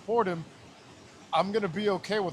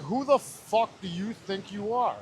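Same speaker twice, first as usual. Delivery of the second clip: inner voice; 2 semitones higher, slower than usual. Retold or imitated. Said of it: "'cause it's my voice".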